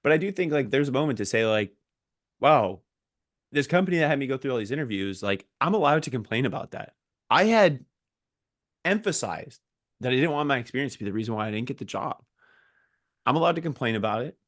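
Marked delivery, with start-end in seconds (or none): 2.4-14.3 indignant complaint. Acted. Job seeker vents about the company's interview process, indignant. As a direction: let off steam in a brisk rant.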